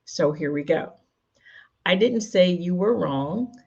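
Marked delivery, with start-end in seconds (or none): 1.9-3.5 slow, with DIDN'T stressed; emphasised word. Shown as a demonstration. Coach showing how emphasis changes a sentence, stressed "didn't". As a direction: lean on "didn't" in a measured read. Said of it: "placing the emphasis on the underlined words".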